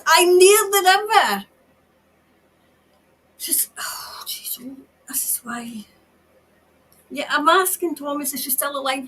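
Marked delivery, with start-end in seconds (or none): 0.1-1.4 higher and louder cry; desperate channelled call. Acted. Channels woman calling out. 3.4-5.8 softer shaken whisper; overwhelmed murmur. Real, not acted. Medium overwhelmed.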